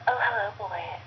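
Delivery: lightly voiced seductive mom; a hint of whispered come-on; steamy mom voice. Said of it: "Can you do the voice? Of my mom?".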